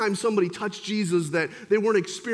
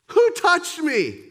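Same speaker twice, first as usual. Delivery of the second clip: slow, louder stern demand; stern Jesus, slower; 6 semitones higher, 5 dB louder, slower than usual. Acted. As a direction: press the question home, slowly. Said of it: "Jesus seems to be stern here".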